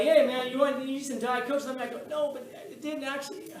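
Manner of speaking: laughing. Retold or imitated. Both laughing through hallway exchange.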